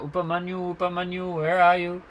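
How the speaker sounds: high call across the fields; searching at night, calling for the lost boy. Retold or imitated. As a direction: call his name into the dark forest. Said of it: "and calling out".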